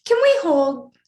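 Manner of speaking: quick unvoiced whisper, high; whispered aside. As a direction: whisper the hold so the take isn't ruined. Director halts take, whispered.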